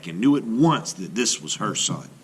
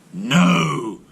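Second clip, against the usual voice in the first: loud, higher shout; 4 semitones higher, 6 dB louder than usual. A narrator's reading. Brother shouts seeing the island, loud shout. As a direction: call out in astonishment. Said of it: "he shouted".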